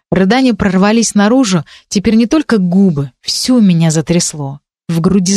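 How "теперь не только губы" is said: ordinary delivery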